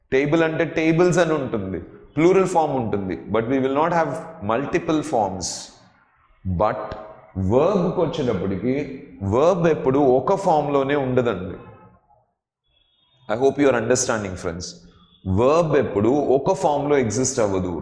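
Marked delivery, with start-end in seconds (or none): 3.3-5.5 slow, deliberate English said word by word; slow teacher delivery of an English line. Shown as a demonstration. 13.3-14.7 slow check-in. Shown as a demonstration. Teacher checks on the class.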